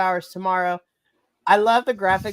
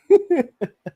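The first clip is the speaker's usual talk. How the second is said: giddy laugh; 12 semitones higher, 6 dB louder than usual. Real, not acted. Giddy laugh after quote.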